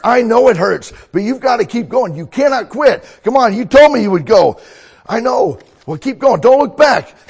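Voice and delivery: very high, loud coach yelling; hoarse marathon cheering. Acted. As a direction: scream encouragement from the sideline. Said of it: "I'm gonna be a coach".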